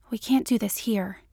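"here" pushed out, a touch heavy at the end; stress on here. A narrator's reading. To Mulder in the park, mildly pressing "here". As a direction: lean a little too hard on "here". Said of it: "too much stress on the word here".

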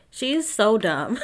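slow, emphatic verdict; slow and weighty, fed up; drawn-out exasperation. Real, not acted. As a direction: stretch it out in disbelief. Exasperated verdict, first plain take.

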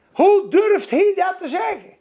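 high, incredulous outburst; indignant disbelief. Acted. Preacher reacting to Petrus accusing the crowd, in high-pitched indignation. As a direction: exclaim it as if scandalised.

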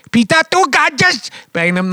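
put-on lilting Welsh accent on the name. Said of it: "That was a Welsh accent".

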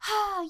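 high, airy sigh; demonstrative sigh. Retold or imitated. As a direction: sigh it out to show the delivery. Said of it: "it's delivered just, like, so, like".

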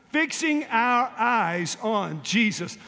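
Fixing drawn out slow, each word spaced; slow unison recitation. Shown as a demonstration. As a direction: chant it slowly together again. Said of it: "One more time".

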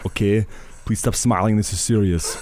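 lightly voiced Arnold Schwarzenegger; a hint of the Austrian strongman; Arnold impression. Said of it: "that Arnold was on the way in".

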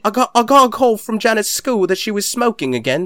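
high-pitched bad English accent; mock English accent. Imitating the film's mum on the phone, mock English accent. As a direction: send up the film mum's fake London accent. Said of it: "I was gonna ask about the accents".

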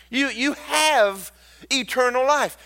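shouted preacher proclamation; emphatic declaration. Acted. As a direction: proclaim it to the whole church. Declares eternal life.

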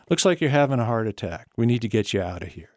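steady, unhurried reassurance; calm, matter-of-fact. Retold or imitated. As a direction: calmly take charge. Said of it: "I just loved the way he said it".

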